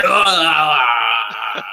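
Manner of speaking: loud mock barbarian roar. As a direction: shout it like rising from your seat in triumph. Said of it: "he's like".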